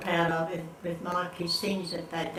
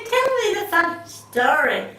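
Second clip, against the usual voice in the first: much higher, louder whine; pleading call; 11 semitones higher, 5 dB louder than usual. Retold or imitated. Daughter pleading with her mother, high and insistent. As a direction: draw out the plea for attention.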